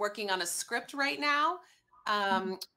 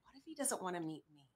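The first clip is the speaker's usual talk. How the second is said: scared question; 3 semitones lower, 12 dB quieter than usual. Retold or imitated. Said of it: "but I said".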